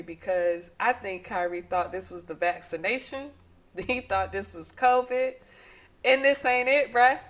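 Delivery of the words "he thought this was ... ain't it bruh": emphatic. Real, not acted. Emphatic rant.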